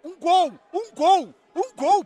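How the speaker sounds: high, loud repeated bursts; insistent fan chant-like yell; pleading shout. Real, not acted. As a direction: beg the team at full voice. Demanding a goal.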